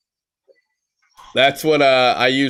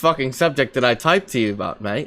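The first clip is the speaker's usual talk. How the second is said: higher, exasperated mock-English voice; fake-English protest, pitched up; English accent; 4 semitones higher than usual. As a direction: complain in a put-on English accent. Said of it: "you're from the U K".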